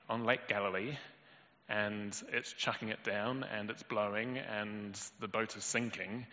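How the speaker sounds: ordinary talk, nothing marked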